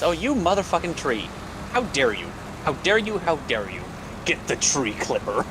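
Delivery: mock outrage at a tree, pitch jumping up; hammed-up fury, repeated cry; shaking with anger. Mock rage at game tree.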